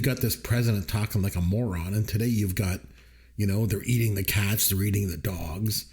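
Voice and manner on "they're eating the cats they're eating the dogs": low-pitched, lightly voiced politician impression; Donald Trump. Podcast host quoting absurd political remarks, lightly imitated presidential voice. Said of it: "comes out of Donald Trump's mouth".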